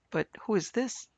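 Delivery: a sharp rising "who" in alarm; startled exclamation. Acted. Harry startled by a figure on the stairs, exclaiming. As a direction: voice jumps up in shock at the stranger. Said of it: "exclaimed Harry".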